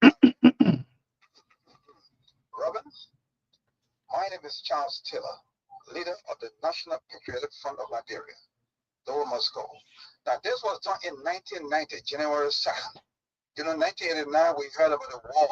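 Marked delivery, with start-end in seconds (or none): 0.0-9.6 lightly voiced radio broadcast of a rebel leader; Charles Taylor. Host asks for it, guest gives a Charles Taylor broadcast, lightly voiced. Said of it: "let me hear the Charles Taylor voice".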